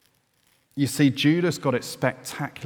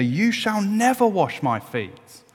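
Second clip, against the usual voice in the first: higher, louder proud protest; proud loud refusal; 9 semitones higher, 6 dB louder than usual. Retold or imitated. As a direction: insist hard, playing Peter. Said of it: "said Peter".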